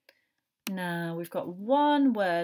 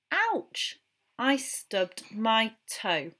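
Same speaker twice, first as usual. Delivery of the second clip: playful fake hurt cry; mock pain; 2 semitones higher, slower than usual. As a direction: pretend you stubbed your toe. Mock pain about the toe.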